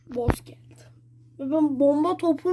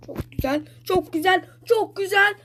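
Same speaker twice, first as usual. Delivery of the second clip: building excitement; 5 semitones higher than usual. Real, not acted. Gamer cheering as game goes well.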